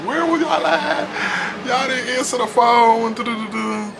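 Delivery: high, slow nagging mom voice; scolding mom. Retold or imitated. Mom at home scolding the kids, high and slow. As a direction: drag out the worry as a scold. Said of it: "my mom and them like".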